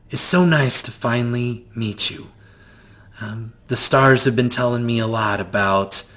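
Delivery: a hint of a kind grandmother welcoming guests; gentle grandmother. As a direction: soothe the weary guests.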